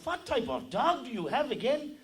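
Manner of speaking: loud, high, slow German demand; German accent. Acted. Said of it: "The German says".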